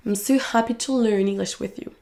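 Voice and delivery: HAPPY, LEARN, ENGLISH stand out, small words reduced; content words stressed. Shown as a demonstration. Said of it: "les mots de contenu qui sont accentués". (accentuer happy, learn, English, réduire le reste)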